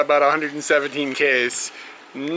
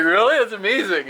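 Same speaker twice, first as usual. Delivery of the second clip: mock surprise; 5 semitones higher than usual. Retold reply to road builder.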